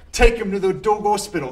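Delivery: exasperated reread. Acted. Rereads misspelled letter loudly.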